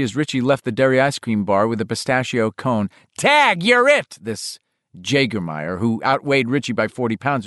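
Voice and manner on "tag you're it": much higher, slow taunting scream. Acted. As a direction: yell it out like a bully.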